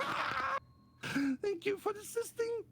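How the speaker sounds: mocking robot voice. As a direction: parody the polite machine. Neighbour mocks the door AI.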